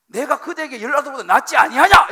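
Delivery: very loud, high, irritated outburst; irritated husband. Acted. Elkanah to his wife who won't understand, loudly irritated. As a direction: demand it at the top of your voice, annoyed. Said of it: "이제 짜증 섞이는".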